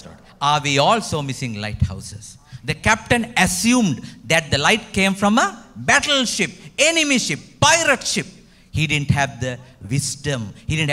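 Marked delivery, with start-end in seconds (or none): 2.6-8.3 rising list. Acted. Preacher builds list emphatically.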